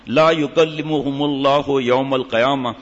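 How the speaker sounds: slow, measured Arabic quotation; Arabic scripture recitation. Real, not acted. Preacher citing punishments for covering ankles, slow recitation. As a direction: draw out each Arabic word formally.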